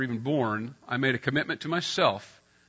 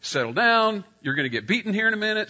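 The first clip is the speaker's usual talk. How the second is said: higher and louder hushing, stretched at first; scolding parent; 8 semitones higher, 5 dB louder than usual. Retold or imitated. Dad hushing his kids at bedtime, firm scolding. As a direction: shush them like a firm parent. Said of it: "I would say".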